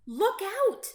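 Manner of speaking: high, loud toad warning; croaked warning. A narrator's reading. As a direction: call out the alarm as Toad. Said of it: "croaked Toad".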